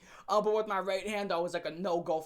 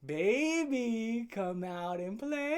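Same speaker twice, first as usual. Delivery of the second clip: a hint of the Warriors movie taunt, slow; lightly voiced creepy singsong call; 2 semitones higher, much slower than usual. Quoting the Warriors at his girlfriend, mild and slow. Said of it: "if you ever seen the Warriors".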